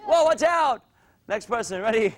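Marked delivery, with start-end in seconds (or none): 0.0-0.8 higher-pitched playful alarm; excited warning. Pretend. Coach warns kids in throwing drill, excited warning. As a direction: call out a mock warning.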